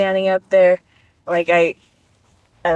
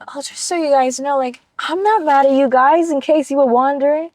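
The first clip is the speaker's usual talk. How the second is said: mock magnanimous; 6 semitones higher than usual. Voicing father's group text.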